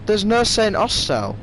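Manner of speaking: can't believe it's missing; indignant surprise. Real, not acted.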